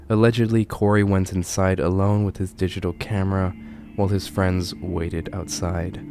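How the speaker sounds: measured, solemn true-crime storytelling; grave storyteller with weighty pauses; ominous horror narration. A narrator's reading. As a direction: narrate a dark case, letting phrase endings sink.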